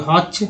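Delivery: "हॉच" ending in a clear "ch"; TCH as "च". Shown as a demonstration. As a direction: show "हॉच" with TCH as one sound. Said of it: "टी सी एच को बोलते हैं च". ("हॉच" के अंत में साफ़ "च")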